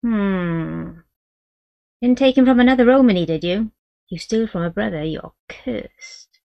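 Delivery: put-on an old Romany woman warns of a curse; old gypsy woman. Great-grandmother voiced.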